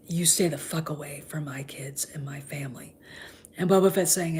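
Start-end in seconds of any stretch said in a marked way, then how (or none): 0.1-2.9 low whispered warning; hushed threat. Retold or imitated. Han warning Boba Fett off his family, low whispered threat. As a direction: threaten him quietly, hand on the blaster. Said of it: "looking at him going".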